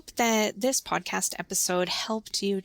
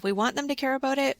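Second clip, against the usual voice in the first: lifted and loud to make them care; louder, faster; 6 semitones higher, faster than usual. Shown as a demonstration. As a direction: say it louder, much higher and fast. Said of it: "we usually say it louder".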